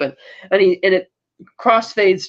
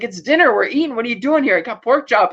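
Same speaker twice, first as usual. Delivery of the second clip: higher, lightly annoyed retelling; mock indignation; 4 semitones higher than usual. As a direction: protest the intrusion, voice raised in pitch. Retelling annoyed man at the door.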